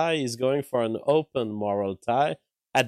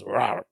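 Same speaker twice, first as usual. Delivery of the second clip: playful growl into the mic; radio host growl; 4 semitones lower than usual. Real, not acted. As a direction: growl like a maxed-out DJ. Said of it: "like the nineties radio host".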